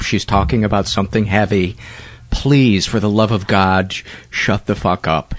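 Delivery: plain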